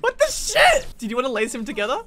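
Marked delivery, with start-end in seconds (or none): 0.0-0.9 high startled outburst; surprised. Real, not acted. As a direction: blurt it in disbelief.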